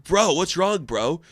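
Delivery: lightly voiced concerned bro; bro-talking Minotaur. Minotaur friend consoling Thor, light bro voice. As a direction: play a mock-sympathetic buddy. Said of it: "He's like".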